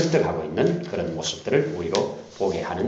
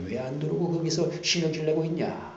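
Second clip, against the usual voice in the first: voiced father; 6 semitones higher than usual.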